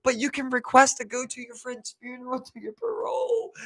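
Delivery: mock judge. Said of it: "He's like".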